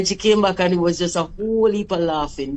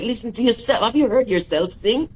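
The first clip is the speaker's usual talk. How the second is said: retold mad scolding. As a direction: scold someone for wasting their talent. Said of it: "I was so mad".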